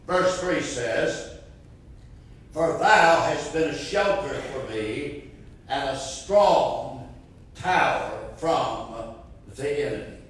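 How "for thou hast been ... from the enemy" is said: scripture reading. Real, not acted. Reads scripture verse slowly.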